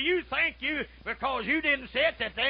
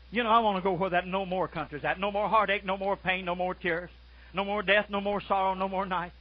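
chanted no more list, building; rhythmic preaching list; 4 semitones lower than usual. Acted. Preacher to congregation, chanting heaven's list. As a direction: preach each no more in a steady beat.

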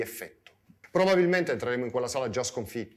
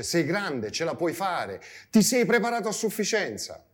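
encouraging self-talk, rising higher and louder towards the end; lightly voiced encouraging inner voice; 4 semitones higher, 3 dB louder than usual. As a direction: build up the pep talk, lightly acted. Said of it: "Una voce che ci dice".

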